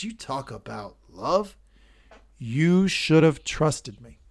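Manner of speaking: slow, cold contempt; disdain. Acted. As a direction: drag each word with scorn. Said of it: "The disdain in his voice".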